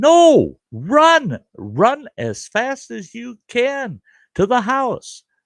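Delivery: mock, very high-pitched, stretched-out, drawn-out yell. Retelling a grandmother calling kids to the house: imitating grandmother yelling. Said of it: "she's yelling".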